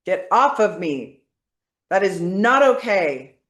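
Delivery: firm, powerful push-back; forceful. Shown as a demonstration. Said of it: "say this with force, with power now".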